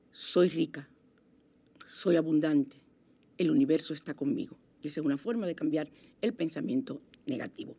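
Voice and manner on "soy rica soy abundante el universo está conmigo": affirmation. Shown as a demonstration. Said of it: "ponte a decir".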